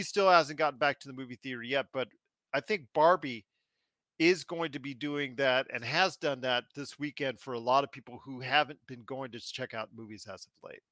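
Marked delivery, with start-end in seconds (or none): 2.5-10.8 chewing while talking; crunching chips. Real, not acted. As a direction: talk through a mouthful of crunch. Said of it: "I'm crunching right now".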